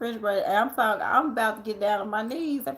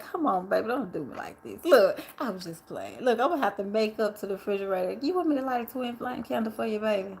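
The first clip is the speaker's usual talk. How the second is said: smooth pimp swagger. Pretend. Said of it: "I'll be talking like a pimp".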